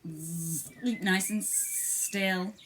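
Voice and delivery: slow, buzzing fly voice; buzzing flies. Acted. Flies telling the mole to keep still, slow buzz. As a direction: drone it like a lazy fly. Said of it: "buzzed the flies".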